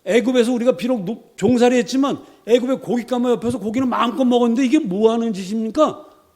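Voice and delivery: high, loud wailing complaint; whining resentment. Acted. Preacher voicing Israelites griping in the desert, high whining moan. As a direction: moan at God like a spoiled grumbler. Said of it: "라고 원망을 합니다".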